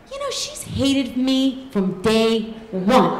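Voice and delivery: slow, wry inner aside; wry inner thought. Retold or imitated. Thinking about her sister, slow wry half-laughing musing. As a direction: muse it slowly, half laughing. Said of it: "And I think".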